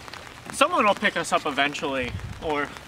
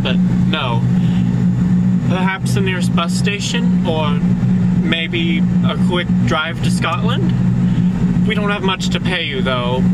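polite passenger; 5 dB louder than usual. Acted. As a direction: bargain politely with a cabbie, a touch grand. Passenger bargaining with the driver.

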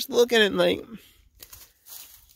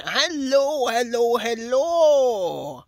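calling out; 5 semitones higher, much slower than usual. Real, not acted. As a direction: hail the cows from afar. Calling out to cows in field.

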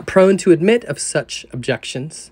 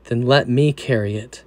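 gentle offer; 4 semitones lower than usual. Retold or imitated. Jesus answering the anxious sinner.

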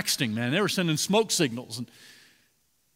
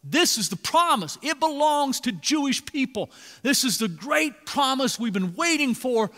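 rising fervour on the promise; excited preaching; 4 semitones higher than usual. Real, not acted. Preacher builds excitement about promise.

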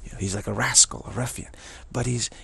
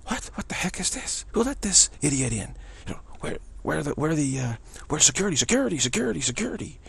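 aghast mourners; 5 semitones higher than usual. Retold or imitated. Shocked mourners call security.

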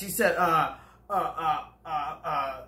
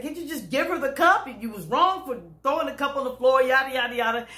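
higher, fed-up demand; exasperated plea; 5 semitones higher than usual. Retold or imitated. Driver pressing the white lady to give the cup, fed-up. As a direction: plead in frustration. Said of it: "And she snapped".

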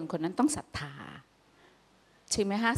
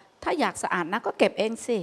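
snappy retort; 3 semitones higher than usual. Retold or imitated. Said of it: "ปฏิกิริยาของการเหวี่ยง".

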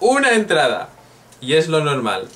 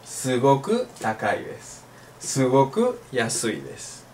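formal exam Japanese; 5 dB quieter than usual. Retold or imitated. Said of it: "buen japonés correcto y de examen".

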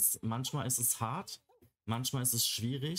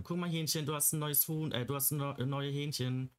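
higher, cooing voice for the rooster; 4 semitones higher than usual. Real, not acted. Gamer cooing to the virtual rooster, higher baby talk. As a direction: coo at the little rooster like a pet. Talking sweetly to pet rooster.

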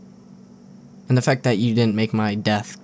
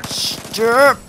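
yelled stop; 9 semitones higher, slower than usual. Real, not acted. Gamer yelling at another player to stop, yelled. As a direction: yell it sharply upward.

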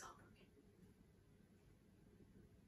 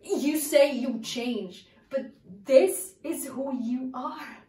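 searching soliloquy. Acted. Actress monologue to Raymond.

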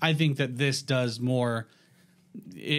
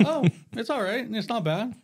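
laughing; 8 semitones higher than usual. Retold or imitated. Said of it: "but I was like".

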